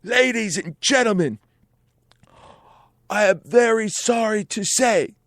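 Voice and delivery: put-on high Irish-accented stage announcement; mock Irish rock-star voice; a rock singer, Irish accent. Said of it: "this is my Irish accent".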